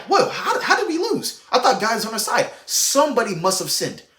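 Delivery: can't believe they lost; stunned soldiers asking how; shocked disbelief. Retold or imitated. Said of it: "They're like".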